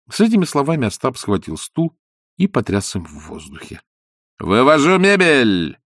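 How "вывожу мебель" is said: slow firm declaration; decisive. Acted. Ostap announcing the removal, slow and firm. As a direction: declare it slowly, firmly. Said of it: "решительно заявил Бендер".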